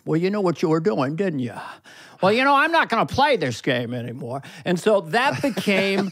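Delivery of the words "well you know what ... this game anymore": angry Jimmy Stewart. Pretend. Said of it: "I like the angry Jimmy Stewart".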